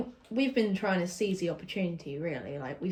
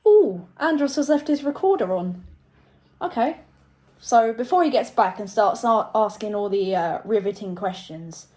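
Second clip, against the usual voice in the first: excited presenter; 7 dB louder than usual. Acted. Host takes over the recording.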